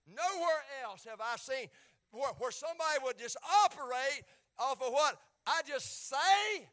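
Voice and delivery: loud, slow, high marvelling; Jesus marvelling at the centurion's faith; amazed proclamation. Acted. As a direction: preach Jesus's wonder. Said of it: "He said".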